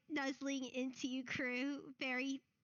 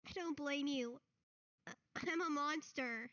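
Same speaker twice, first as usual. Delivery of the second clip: put-on sad boy; 2 semitones higher than usual. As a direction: say it like he's worthless. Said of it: "Mad Lad is like".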